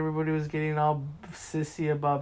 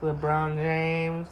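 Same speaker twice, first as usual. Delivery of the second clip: very slow drawn-out LeBron James; LeBron James Vine; much slower than usual. Retold or imitated. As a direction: stretch out the name slowly. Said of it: "that stupid ass fucking Vine".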